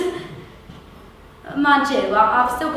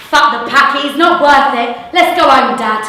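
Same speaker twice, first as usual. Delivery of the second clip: loud dismissive call; 7 dB louder than usual. Acted. Skinny thug calls it off.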